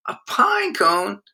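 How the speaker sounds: put-on high, slow disappointed kid; young son unimpressed with his father's gift; puzzled question. A narrator's reading. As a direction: ask like a let-down little boy.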